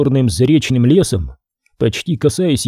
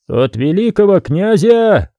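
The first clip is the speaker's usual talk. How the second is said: slow, raised official announcement; booming proclamation; 6 semitones higher than usual. A narrator's reading. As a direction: intone it like a solemn herald. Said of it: "загудел".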